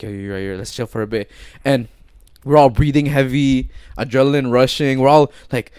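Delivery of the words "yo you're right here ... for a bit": softer, lowered hushed voice; retold whisper. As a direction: imitate quietly conferring while in hiding. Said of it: "we were all whispering".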